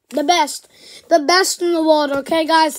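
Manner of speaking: announcing it's the best in the world; excited hype. Real, not acted. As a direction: hype it to the viewers.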